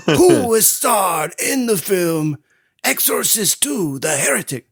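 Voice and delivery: hammed-up South American accent; mock South American accent. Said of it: "South American quasi accent".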